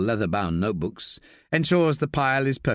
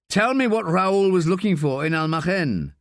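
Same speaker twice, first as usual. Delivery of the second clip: pleading; 6 semitones higher, 3 dB louder than usual. Acted. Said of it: "pleads Staff".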